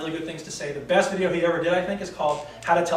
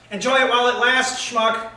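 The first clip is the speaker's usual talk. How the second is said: higher-pitched chastising voice in the head; heckling inner critic; 6 semitones higher, 5 dB louder than usual. Acted. Little hater chastising the guy on a date, heckling. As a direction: needle him as his own inner hater. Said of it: "The little hater tried to intervene".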